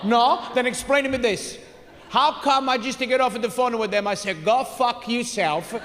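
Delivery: lightly voiced aggrieved father; father impression. Father complains to his son, mildly indignant. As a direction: imitate a father making his case. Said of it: "My father thinks the cable company's".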